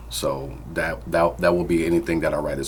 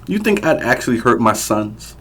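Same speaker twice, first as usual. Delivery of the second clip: loud, higher angry challenge; angry scoff; 6 semitones higher, 5 dB louder than usual. Acted. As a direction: sneer at her accusation. Abusive father scoffing.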